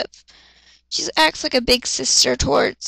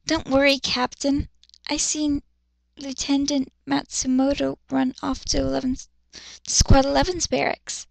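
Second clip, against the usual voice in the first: shy soft voice; 4 dB quieter than usual. Acted. Shy girl reassures.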